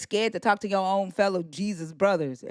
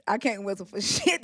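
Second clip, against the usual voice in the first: laughing. Shown as a demonstration. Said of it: "This me".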